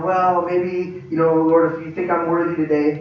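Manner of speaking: mildly hesitant, unsure prayer; tiptoeing request. Acted. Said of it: "don't tiptoe around it".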